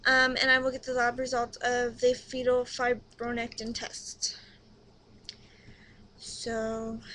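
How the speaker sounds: talking out of breath during contractions; breathless, winded words. Real, not acted. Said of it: "sorry, I'm out of breath".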